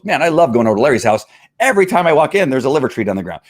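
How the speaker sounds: eager voice, jumping high midway; happy dog. Acted. Dog excited about going over to Larry's house, pleased lifted voice. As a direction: gush as a delighted dog. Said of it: "until the dog now goes".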